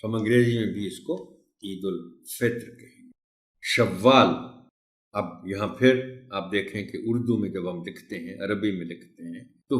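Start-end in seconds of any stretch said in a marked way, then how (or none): 3.6-4.6 شوال said slowly, the w held double; شوال with a lengthened w sound; doubled w. Shown as a demonstration. Teacher models شوال for the class, slowly, w doubled. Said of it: "یہاں بھی ہم اس کو شوال".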